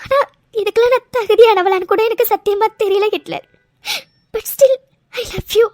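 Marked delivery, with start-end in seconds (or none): 4.3-5.7 tearful. Acted. Tearful confession to husband.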